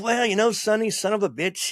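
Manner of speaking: imitating the slugger at the door; gruff Ted Williams. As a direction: bellow the greeting like an old ballplayer. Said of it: "He goes".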